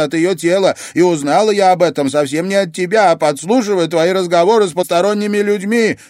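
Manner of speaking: furious granddaughter; angry accusation. Acted. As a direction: unload every secret at once. Luiza confronts grandmother angrily.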